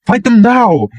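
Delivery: high, breaking cry; a woman near tears begging him. A narrator's reading. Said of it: "Her voice had a break in it".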